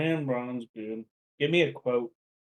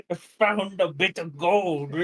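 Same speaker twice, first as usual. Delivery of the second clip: bad Scottish accent; 4 semitones higher, slower than usual. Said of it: "that sounded terrible".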